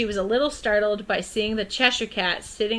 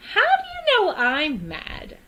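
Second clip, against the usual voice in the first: put-on high questioning girl; 11 semitones higher, 5 dB louder, slower than usual. Alice questions the cat.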